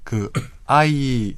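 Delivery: ordinary delivery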